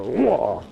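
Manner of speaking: strained whoa; effort grunt. Real, not acted. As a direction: grunt with exertion. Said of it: "kinda doing caveman stuff here".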